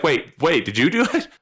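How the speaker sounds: puzzled, rising to high disbelief; double-take into a rising question; acted suspicious surprise; taken aback. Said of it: "And then they're just like".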